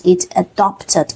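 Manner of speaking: adopted with the open ah sound, not adapted; teacher stressing the vowel in adopted. Shown as a demonstration. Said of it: "it is adopted, not adapted".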